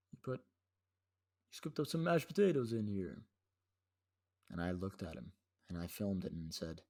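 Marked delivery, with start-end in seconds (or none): 0.1-3.2 higher, slow mock accusation; retold blaming. Brother blaming the cake cutter, mock accusing. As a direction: imitate an indignant accusation, drawn out. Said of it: "he blamed the person who was cutting the cake".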